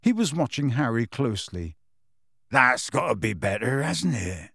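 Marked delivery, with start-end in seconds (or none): 2.5-4.5 put-on country-accented coaxing question; gentle rustic gamekeeper. A narrator's reading. Gamekeeper consoling withdrawn boy, gently.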